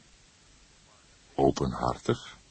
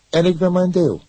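sudden fierce outburst, high and loud; fierce, rebellious; 14 semitones higher, 10 dB louder than usual. A narrator's reading. Young man suddenly flares up at the cook, fierce and loud. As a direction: snap back defiantly, much louder. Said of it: "reageerde hij plotseling fel, opstandig".

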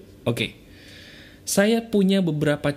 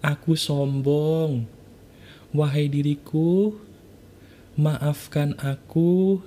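guided affirmation; slower than usual. Acted. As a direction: let each phrase fall slowly, like surrendering. Leads a spoken self-apology.

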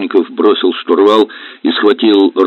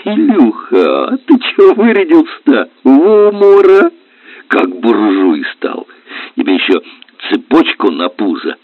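mocking teasing; 6 semitones higher, 4 dB louder than usual. A narrator's reading. Helmsman jeering at the dressed-up captain, high mocking tone. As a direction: tease him, drawing the words out in mock awe. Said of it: "а потом расхохотался".

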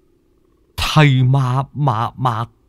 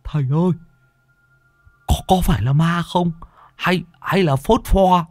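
higher, scared stammer; frightened cry; 8 semitones higher than usual. A narrator's reading. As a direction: ask in fright, voice up. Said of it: "rú lên".

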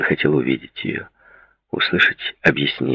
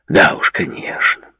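slow, drawn-out sarcasm; heavy sarcastic disbelief; much slower than usual. A narrator's reading. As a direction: drag the words out in mock agreement. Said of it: "с сарказмом в голосе произнёс Дэвид".

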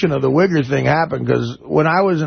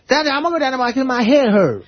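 light Southern caller imitation; 7 semitones higher, faster than usual. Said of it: "she's talking to someone else in the house going".

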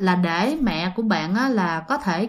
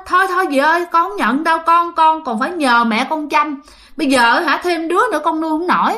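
flustered refusal; 5 semitones higher than usual. Acted. Mother again declines the baby.

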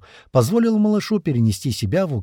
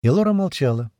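usual speaking voice

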